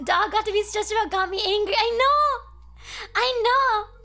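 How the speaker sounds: mock anger. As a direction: rant like a fan outraged for the dog. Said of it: "I'm so mad".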